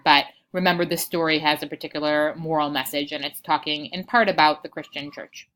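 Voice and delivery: breathless lecturer; short of breath, talking on. Real, not acted. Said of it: "so I am out of breath".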